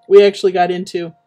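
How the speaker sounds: words stretched by a yawn. Real, not acted. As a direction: talk through a yawn. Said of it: "I didn't mean to yawn".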